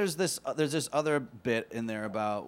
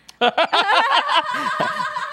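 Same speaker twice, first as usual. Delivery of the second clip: loud high laugh; 9 dB louder than usual. Real, not acted. Big laugh at question.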